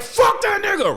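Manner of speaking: high laughing scoff; mock dismissal. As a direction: spit it out laughing. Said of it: "It's like".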